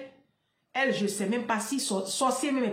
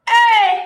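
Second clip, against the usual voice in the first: loud cry; 11 semitones higher, 15 dB louder than usual. Real, not acted.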